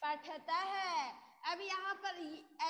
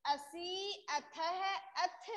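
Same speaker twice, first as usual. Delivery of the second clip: slow syllable demo; much slower than usual. Shown as a demonstration. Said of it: "teacher slowly models the syllables".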